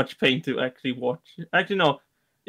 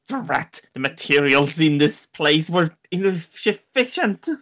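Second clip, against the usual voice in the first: exasperated character; slower than usual. Pretend. Character curses broken ice gun.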